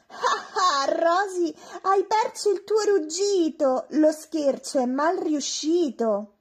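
high, loud teasing laughter; gleeful taunting chorus; mocking laugh. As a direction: laugh at the failed prank. Friends mock Rosy, laughing.

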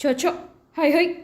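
a lightly voiced bullock driver's chocho, hai hai; mock cattle-driving calls. Passenger heard urging the rickshaw man like cattle, mock driving calls. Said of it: "అన్నట్టుగా అనిపించింది".

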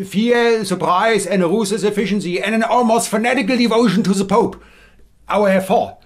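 Hessian accent. Shown as a demonstration. Sketch of the Inquisition bursting in, in Hessian accent. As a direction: bark the Spanish Inquisition lines in a Hessian accent. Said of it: "this is what a Hessian accent would sound like in English".

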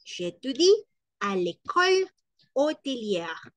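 "l'école" lifted high; "l'école" stressed. Shown as a demonstration. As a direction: rise up on "l'école". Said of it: "sino que decimos".

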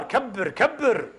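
slow, drawn-out mock order كبر، كبر; mocking slow repetition. Preacher mocking elders' demands for respect, slow and drawn out. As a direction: drag out كبر كبر like a scolding elder. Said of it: "احترام الكبار".

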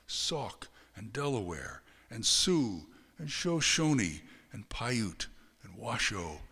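measured author's reading with deliberate pauses; unhurried novel reading; literary story narration. Acted. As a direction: read the prologue aloud, phrase by phrase. Reads novel prologue aloud.

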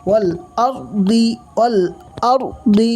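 والأرض with a rounded, heavy r, lips rounded. Shown as a demonstration. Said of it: "মুখটা গোল করে করবেন".

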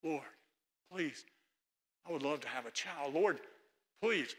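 soft, hushed pleading to God; pleading prayer. Acted. Hannah pleading softly with God for a child. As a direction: beg quietly, drawing each word out. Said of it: "she's pleading to God".

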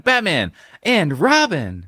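slow, high astonished call; amazed crowd shout. Retold or imitated. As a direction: call the names out in awe. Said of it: "people on the street going".

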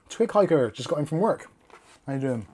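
crunching ice while talking; talking around crunched ice; mouth full. Real, not acted. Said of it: "Sorry, I'm crunching ice now".

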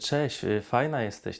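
a light demo of trying to please; ingratiating. Shown as a demonstration. Dating coach imitates a man seeking a girl's approval, lightly ingratiating. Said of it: "wyższy nawet, przymilający".

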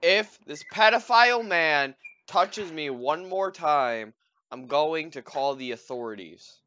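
high, very loud, drawn-out threat; mock-outraged shouting. Player threatening game villain with authorities, mock-outraged shouting. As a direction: shout a hammed-up warning, slowly at first.

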